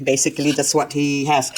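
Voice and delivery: usual speaking voice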